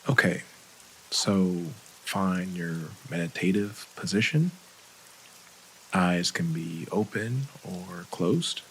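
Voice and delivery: calm, unhurried meditation guide, leaving long pauses; guided meditation. Acted. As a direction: ease listeners gently through breathing and relaxing.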